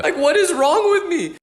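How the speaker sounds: high, slow exasperated cry; exasperated self-reproach. Acted. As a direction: cry out in mock horror at yourself. Horrified at own intrusive thought.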